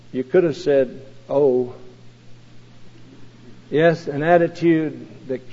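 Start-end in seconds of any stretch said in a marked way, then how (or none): 0.1-1.7 a touch of sadness, lower and softer; sad little boy. Retold or imitated. Sad little boy answering his dismissive father, softly. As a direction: let it sink, quietly hurt. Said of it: "said the sad little boy".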